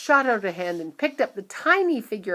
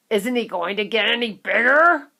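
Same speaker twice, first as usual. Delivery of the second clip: loud anxious shout; 4 semitones higher, 11 dB louder than usual. A narrator's reading. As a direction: yell it at the screen. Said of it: "shouted Mister Teavee".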